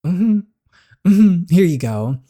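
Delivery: imitating a sweet-nice person. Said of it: "you would hear them speak, and it's like".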